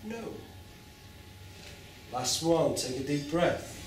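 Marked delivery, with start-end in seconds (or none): 0.0-0.3 gentle no. Shown as a demonstration. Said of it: "in a very loving way".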